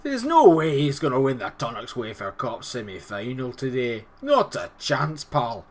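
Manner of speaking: broad Scottish voice, taunting the rival team; Scottish accent. Acted. YouTuber opening his video in a mock Scottish accent. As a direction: play a cocky Scotsman talking down the opponent. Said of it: "give me an excuse to do a Scottish accent".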